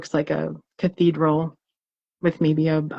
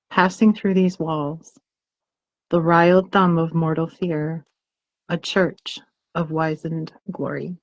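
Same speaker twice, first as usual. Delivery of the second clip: slow, hushed reading that opens in a whisper; poem reading. Acted. Reading the ghost-prompt poem to listeners, slow and hushed. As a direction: let the ghost lines creep out slowly.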